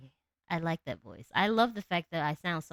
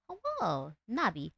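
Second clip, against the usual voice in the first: cringe voice; 3 semitones higher, slower than usual. Shown as a demonstration. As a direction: squeak out the hello. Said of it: "I'm gonna do the voice".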